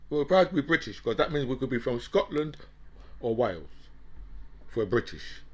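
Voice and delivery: mocking English whites. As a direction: sneer it out as a caricature of ashamed English people. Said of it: "But English white people are like".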